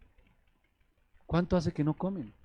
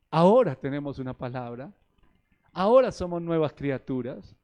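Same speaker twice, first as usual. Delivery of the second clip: forceful preaching; 5 semitones higher, 5 dB louder than usual. Real, not acted.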